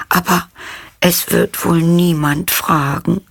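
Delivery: high, timid lamb's plea; anxious little voice. A narrator's reading. Lost lamb asking the girl for help, high and timid. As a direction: bleat it out shyly, afraid. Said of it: "ängstlich".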